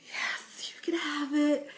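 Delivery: whispered yes, giving in; a hammed-up beaten whisper; mock defeated whisper. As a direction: breathe it out like you've lost. Resigned mom gives in.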